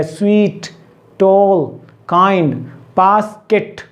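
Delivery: स्वीट, टॉल, काइंड each one separate beat, बास्केट two; syllable demonstration. Shown as a demonstration. Teacher contrasting syllable counts for learners, words sounded out separately. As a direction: set each word apart, splitting only बास्केट into बास्-केट. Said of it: "अलग-अलग आपके articulators use होते हैं".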